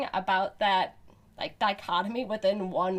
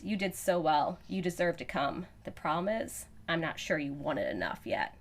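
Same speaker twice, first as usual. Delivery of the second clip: man voice; 2 semitones lower, 4 dB quieter than usual. Acted. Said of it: "this is a good man voice".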